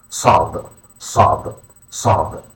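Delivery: SAD with a deep, heavy Arabic S; emphatic guttural S. Shown as a demonstration. Teacher showing learners the letter, SAD with emphatic S. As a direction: darken the S and vowel of SAD. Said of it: "an emphatic S with a deeper, more guttural sound".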